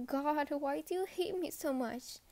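mildly sad, deflated question; saddened. Acted. Cadet asking why the superior hates them, saddened. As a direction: let the outburst sink into hurt. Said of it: "asked with a saddened tone".

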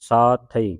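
ਸਾਥਈ as long saa, then thai; ਸਾਥਈ with the ending set apart; separated syllables. Shown as a demonstration. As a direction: hold ਸਾ before the thai in ਸਾਥਈ. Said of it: "ਸੰਬੰਧਕ ਲਾ ਕੇ ਉਚਾਰਨ".

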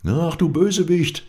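high, loud cry of accusation; high-pitched indignant exclamation; indignant outcry. A narrator's reading. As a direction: call out the villain in outrage. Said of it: "riefen die Schildbürger aus".

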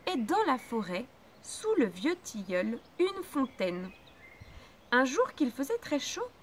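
put-on lively storybook narration for children; fairy tale reading. A narrator's reading. Teacher reading Grimm to pupils, lively storybook voice. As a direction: tell it like a bedtime tale.

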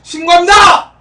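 loud high reporting shout; military shout. Shown as a demonstration. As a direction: report in like a soldier. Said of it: "그럼 바로".

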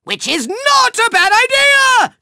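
high, excited villain brainwave; gleeful realisation. Acted. Villain delighted by his own idea, high and gleeful. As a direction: seize on the nasty idea in a high voice.

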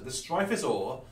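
put-on Yorkshire accent. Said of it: "Sounds like a Yorkshireman".

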